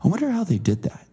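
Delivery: dad marvelling at a building; awed dad. Retold or imitated. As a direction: wonder aloud at the building like dad. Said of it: "he would go".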